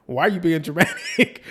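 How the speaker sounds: laughing through the question. Retold or imitated. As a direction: chuckle it out teasingly. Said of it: "Giselle starts laughing like".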